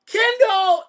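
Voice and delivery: high, swooping big-ego bragging; Gustavo. Acted. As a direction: rant like a puffed-up record producer, high-pitched. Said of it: "record producer with a giant ego".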